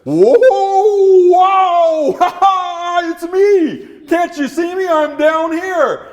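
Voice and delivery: high, loud little dog shouting up. Acted. Dog calls up to the leader, high and loud. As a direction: yap up at the leader from below.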